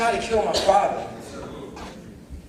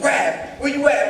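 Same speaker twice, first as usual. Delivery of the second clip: searching call, rising high; 6 semitones higher, 3 dB louder than usual. Retold or imitated. Brother looking for Rap outside, calling out. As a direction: holler for your brother, lightly acted.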